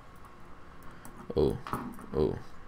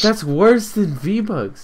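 slow, drawn-out, louder repeat; slow emphatic; 7 semitones higher, 4 dB louder, much slower than usual. Shown as a demonstration. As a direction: stretch every word out. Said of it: "repeats the line slowly".

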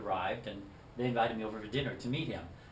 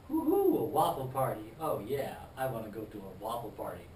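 mock excitement. David teases Paul about the waffle party, hammed-up delight. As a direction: fake a thrilled cheer.

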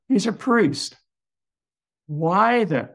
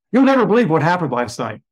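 excited blurt; 4 semitones higher, 6 dB louder, faster than usual. Retold or imitated. Excitedly telling the priest.

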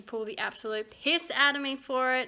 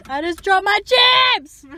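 dismayed shout; 10 semitones higher, 12 dB louder than usual. Real, not acted. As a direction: wail over dropped chips. Dropped chips, cries out.

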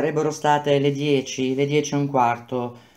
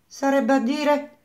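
drawn-out, higher repeat of the question; slow repeated question; 11 semitones higher than usual. Acted. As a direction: ask it again, slowly and pointedly. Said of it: "ripeté Renzoni".

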